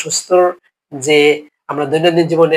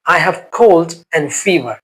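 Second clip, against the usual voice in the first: slow model phrase; much slower than usual. Shown as a demonstration. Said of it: "repeats phrase for learners".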